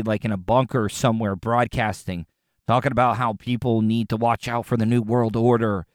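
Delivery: low, measured mimicry of a doubter; mocking critic. Host imitates listeners saying he's going to the dark side, mock-grave.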